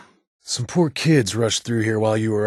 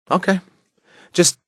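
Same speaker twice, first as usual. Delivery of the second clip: startled okay; 11 semitones higher, 7 dB louder than usual. Acted. Startled reaction.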